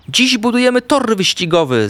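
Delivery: high-pitched eager announcement; excited calling out. A narrator's reading. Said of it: "zawołał". (podekscytowane, wysokie zawołanie)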